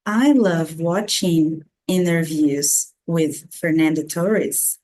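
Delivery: slow model sentence in an English accent; English-accented TORRES, carefully paced; native English accent. Shown as a demonstration. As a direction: say the name with English sounds and accent. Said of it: "falar como um nativo de língua inglesa".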